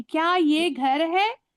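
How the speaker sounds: slow question rising on है; question demo. Shown as a demonstration. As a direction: let है lift at the end. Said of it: "तो question mark आ गया".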